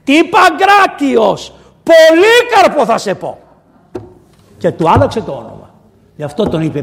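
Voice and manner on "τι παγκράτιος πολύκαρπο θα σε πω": loud, high, drawn-out cry; acted calling out. Widow renames her son, crying out in a long high shout. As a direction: proclaim the new name at a slow shout. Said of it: "φωνάζει τώρα η χήρα και λέει".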